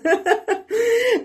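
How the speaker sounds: high crying laugh; laughter. Real, not acted. Laughing at her own panic, a high teary laugh.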